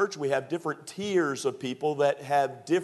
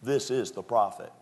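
firm, certain "This is the prophet."; emphatic. Shown as a demonstration. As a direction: declare "This is the prophet." with full conviction. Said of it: "They spoke it very emphatically".

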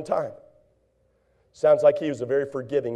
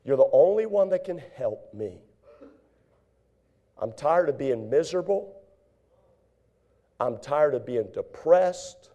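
humble prayer; 2 semitones lower, 3 dB quieter than usual. Pretend.

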